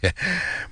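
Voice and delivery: short, high, soft laugh; nervous-to-please little chuckle; acted fawning giggle; servile titter. A narrator's reading. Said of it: "굽실거리며 대답했다".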